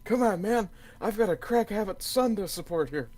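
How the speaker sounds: mock Biden voice. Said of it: "Okay, Biden".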